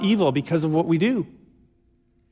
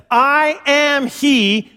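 slow solemn reveal; 5 semitones higher, much slower than usual. Retold or imitated. Jesus reveals himself, slow solemn.

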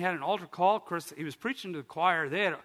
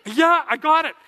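high, loud, triumphant confirmation; excited; 11 semitones higher, 13 dB louder than usual. Retold or imitated. Husband tells his wife he got it, elated. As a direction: burst out with proud excitement. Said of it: "I was so excited".

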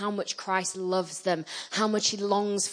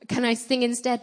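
higher, mildly pitiful plea; pathetic little voice; 5 semitones higher than usual. Retold or imitated. Nervous singer asking the preacher to sing instead, mildly pathetic voice. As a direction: repeat the meek request, lightly put on. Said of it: "in a very pathetic little voice".

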